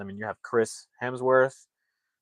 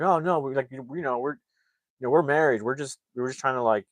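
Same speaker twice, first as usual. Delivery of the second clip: scared pleading; 3 semitones higher than usual. Retold or imitated. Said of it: "So they're scared".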